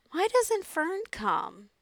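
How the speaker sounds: high, slow, plaintive little pig voice; tearful pig. A narrator's reading. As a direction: wail it slowly, close to crying. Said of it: "He began to cry".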